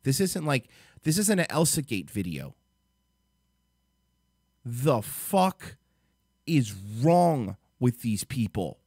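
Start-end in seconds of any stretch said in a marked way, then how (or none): 4.6-8.8 slow, drawn-out outrage; exasperated anger. Real, not acted. Vlogger appalled by a family channel, exasperated anger. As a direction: stretch each word in angry disbelief. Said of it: "I'm so mad".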